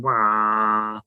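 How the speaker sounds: soft mock engine drone; imitated airboat hum. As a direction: hum it like a fan boat puttering by. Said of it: "which is the sound they make in my head".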